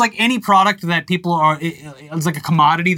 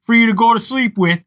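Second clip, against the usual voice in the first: lightly voiced pillow salesman, a bit louder; mock Mike Lindell pitch; 3 semitones higher, 3 dB louder than usual. Podcast host parodies the pillow CEO's sales pitch, lightly voiced. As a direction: hype the products like a pushy pitchman. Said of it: "I'm with Comrade Mike on this".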